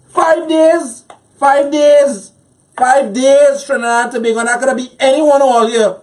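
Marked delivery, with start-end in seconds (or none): 0.1-4.4 emotional. Real, not acted. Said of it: "why I have to be so emotional".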